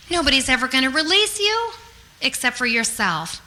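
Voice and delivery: ordinary talk, nothing marked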